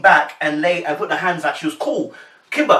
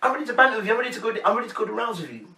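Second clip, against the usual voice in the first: quick, higher teasing challenge; light eager sparring; playful bantering; 5 semitones higher, 4 dB quieter, faster than usual. Retold or imitated. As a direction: rattle it off playfully, egging them on. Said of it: "She was bantering".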